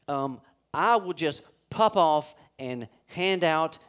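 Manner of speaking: slow, loud, punchy mock outburst; preacher hamming up his own quick temper; mock pop-off. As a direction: play your own hot-tempered parent side. Mock angry parent self.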